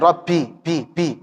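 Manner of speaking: "bi" with a puff of air, like "pi"; breath-leaking ba. Shown as a demonstration. Teacher shows what to avoid, airy "pi". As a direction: let wind escape on "bi". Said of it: "Jangan ada anginnya".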